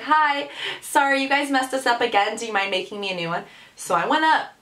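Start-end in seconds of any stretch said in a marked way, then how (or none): 0.0-3.4 mock polite. Customer asking staff for a remake, mock polite. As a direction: put on an overly meek customer voice. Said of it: "couldn't just stand there and be like".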